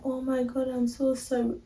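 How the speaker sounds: high, sympathetic quoted voice; mock sympathy. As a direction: imitate a gushing, pitying friend. Voicing others' sympathy to her.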